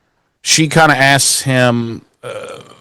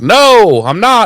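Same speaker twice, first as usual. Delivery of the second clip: high, louder mock denial; Dawn's fake denial; 10 semitones higher, 4 dB louder, slower than usual. Dawn answering Spike while hiding, high squeaky denial. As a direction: squeak it out like a kid hiding badly. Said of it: "And she's like".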